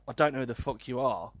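flat, curt and cold, no softening; retold blunt brush-off in an even voice; blunt, dry retort. Drunk lad snubbing a girl in the park, blunt and curt. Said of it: "I said it quite bluntly as well".

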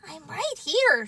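small voice. Acted.

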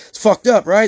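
mock tweaker whining; whiny tweaker plea. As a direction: beg for sympathy like a sweaty tweaker. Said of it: "they're telling you".

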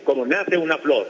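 slow, lilting declamation of a love poem; poem recitation. Shown as a demonstration. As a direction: recite it like a school poetry contest. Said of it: "¿listo para declamar o no?". (declamación poética lenta)

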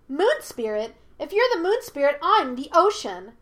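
high, loud childlike mockery; scoffing monkey spirit. A narrator's reading. Monkey spirit ridicules Yue's title, high and scoffing. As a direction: scoff at the absurd claim.

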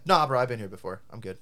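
blunt, offhand brush-off; casually dismissive. Retold or imitated. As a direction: turn down the help without softening it. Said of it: "But I just said".

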